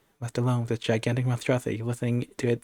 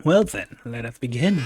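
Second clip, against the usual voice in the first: shout. Acted. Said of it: "he said, shouts".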